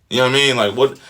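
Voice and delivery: like what, incredulous. Real, not acted. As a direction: react in outraged disbelief. Incredulous outburst at Joe.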